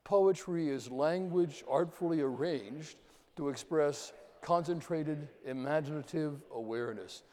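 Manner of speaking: teacher reciting with the class; group recitation. Shown as a demonstration. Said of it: "Let's say it one more time".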